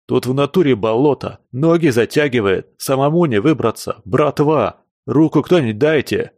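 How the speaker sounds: тревожный зов на помощь. Acted. Тонет в болоте, зовёт братву.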